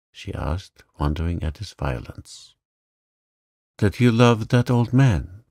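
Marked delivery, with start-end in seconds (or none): 3.8-5.4 jealous outburst. Acted.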